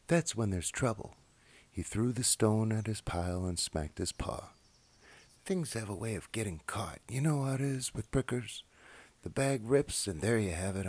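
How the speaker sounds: gentle read-aloud voice with lively character voices; children's story reading. A narrator's reading. Reading a childhood book aloud, storyteller voice. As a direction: read it like a bedtime picture book.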